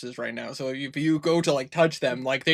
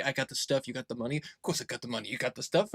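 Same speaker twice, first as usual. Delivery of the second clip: muffled through the wall; 3 semitones lower, 7 dB quieter, faster than usual. Retold or imitated. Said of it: "all you hear is, like".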